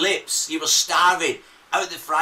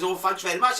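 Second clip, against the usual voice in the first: mock Newcastle lilt, rising at the end; Newcastle accent; 2 semitones higher than usual. Host retelling a customer's thanks in Newcastle accent. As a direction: imitate a woman from Newcastle. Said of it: "the Newcastle accent".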